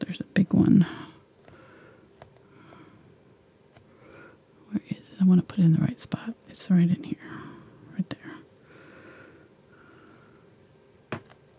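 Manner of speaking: whispered, quiet voice. Painting wrinkles with a brush, looking for the right spot; whispering. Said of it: "I like how you're whispering".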